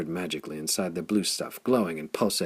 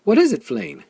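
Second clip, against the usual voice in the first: laughing and crying; 14 semitones higher, 10 dB louder than usual. A narrator's reading. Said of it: "Half laughing and half crying, she sobbed".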